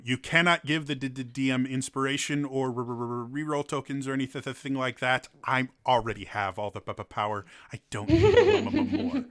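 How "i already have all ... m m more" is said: villain boast. Acted. DM boasting of his power.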